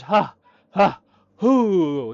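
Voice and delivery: loud acted puffs of relief; exaggerated exhales to calm down; calming breaths. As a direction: puff out heavily, winding down. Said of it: "you know, calming down, trying to relax".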